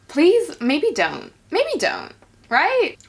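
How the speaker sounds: high whiny please; mock pleading. Real, not acted. Mock-begging the character to stop.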